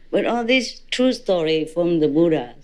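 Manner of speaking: normal talking voice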